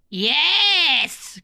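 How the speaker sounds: bright glad cry of yes; cried yes. Acted. Witch welcoming the dog aboard, glad cry. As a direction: happily agree with a cry. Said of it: "cried the witch".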